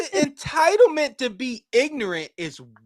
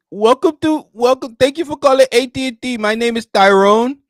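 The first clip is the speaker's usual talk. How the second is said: customer service voice; 3 semitones higher, 5 dB louder than usual. Retold or imitated. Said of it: "My customer service voice".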